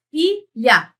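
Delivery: FILHA in two separate syllables, fi-lha. Shown as a demonstration. Teacher sounding out a word for students, syllable by syllable. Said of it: "Veja só".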